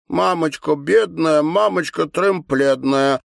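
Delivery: lightly voiced little girl, high and slow; sing-song of a small child; child's voice. A narrator's reading. Little Alyonka climbs over to comfort her mother, childlike.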